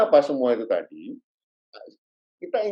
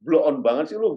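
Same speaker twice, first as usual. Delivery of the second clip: friendly teasing; 2 semitones higher, 4 dB louder than usual. Retold or imitated. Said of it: "mungkin bisa ngomong".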